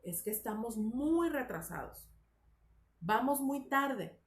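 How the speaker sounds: closed falling tune on "tarde", then a long pause; final pause demo. Shown as a demonstration. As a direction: end "vamos muy tarde" with a firm fall and stop. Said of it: "En el lenguaje oral es una pausa larga". (final marcado con pausa larga)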